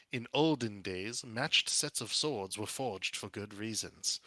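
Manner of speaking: lightly voiced slow oracle; prophesying statue. One of the statues suddenly speaks, lightly intoned and slow. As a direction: recite old lore at a measured, slow pace.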